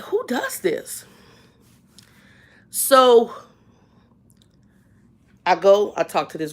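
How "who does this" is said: high, slow, quiet disbelief; incredulous. Retold or imitated. About the rude cashier, slow high disbelief. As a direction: drag it out in disbelief. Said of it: "But I'm like".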